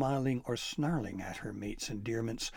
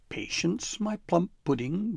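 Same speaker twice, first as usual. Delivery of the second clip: higher, coaxing troll voice; troll advising; 8 semitones higher, 5 dB louder than usual. A narrator's reading. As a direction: soothe her mate like a sweet-talking troll. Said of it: "Gristle advised".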